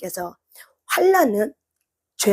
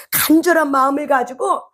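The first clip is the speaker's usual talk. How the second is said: building desperate shout; 7 semitones higher than usual. Acted. Hannah vowing to God, rising into a desperate shout. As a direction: build the vow up to a cry.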